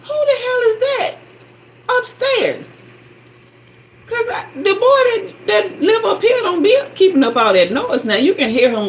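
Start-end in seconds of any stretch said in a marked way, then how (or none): 0.0-2.8 irritated. Retold or imitated. Annoyed at noise upstairs.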